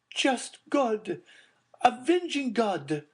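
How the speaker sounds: high, a touch hushed appeal to God; a mild murmured cry to heaven; murmured prayer. A narrator's reading. Madame Danglars hearing of the secret, high murmured appeal. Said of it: "murmured Madame Danglars".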